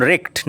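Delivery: wrecked said as "rekt", silent w; teacher models wrecked as rekt; pronunciation of wrecked. Shown as a demonstration. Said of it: "আবার উচ্চারণ লক্ষ্য করো".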